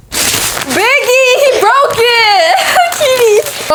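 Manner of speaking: high-pitched cry of alarm; shrieking. Real, not acted. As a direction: shriek at the cat for breaking it. Pet breaks the wrapping.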